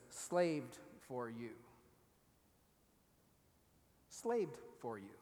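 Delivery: "slaved" drawn out low and slow; weighted "slaved". Shown as a demonstration. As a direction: lean hard and slow on "slaved". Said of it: "the Greek says".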